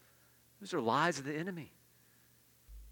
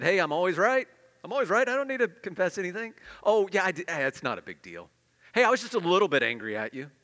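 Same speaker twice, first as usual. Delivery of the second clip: higher and louder, smug and dismissive; proud brushing off; 4 semitones higher, 6 dB louder than usual. Retold or imitated. A proud person refusing to confess, smug and loud. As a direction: brush off any blame airily. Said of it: "Just gives the appearance that".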